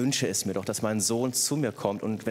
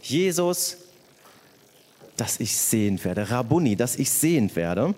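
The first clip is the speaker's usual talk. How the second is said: lauter, drängender Ruf nach Jesus; laut bitten, „sehend“ gedehnt; flehender Ruf; 5 dB louder than usual. Acted. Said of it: "er ruft". (der Blinde ruft Jesus laut um Heilung an)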